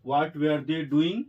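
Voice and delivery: drawn out word by word; slow dictation. Shown as a demonstration. Teacher dictating to students, very slow. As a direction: give each word its own beat. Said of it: "doing हो जाएगा".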